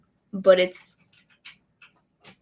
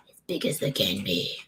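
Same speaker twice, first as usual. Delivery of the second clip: whisper; 13 semitones lower, 7 dB quieter than usual. Pretend. Whispered answer to donation.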